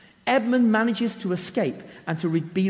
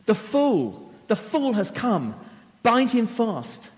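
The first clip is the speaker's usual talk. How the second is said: triumphant witch, crowing a little higher; gloating shout of victory, last words slowed; exultant cry; 5 semitones higher, slower than usual. Acted. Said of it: "she cries in exultation".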